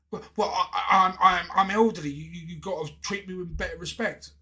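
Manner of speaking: imitating the customer demanding respect; mock indignant customer. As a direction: ham up her wounded pride. Mocking the indignant older customer.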